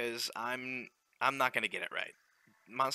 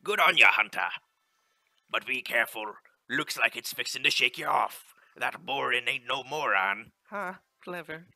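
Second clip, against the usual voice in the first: louder, hearty sea captain reading the in-game lines; ship captain; 6 dB louder than usual. Acted. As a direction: call it out like a captain on deck. Captain cheers the hunter.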